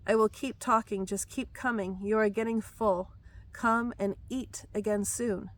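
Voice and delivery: measured, solemn voice of the Lord; prophetic word. Acted. The Lord speaking to his child, solemn prophetic delivery. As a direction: speak as God calling his children home.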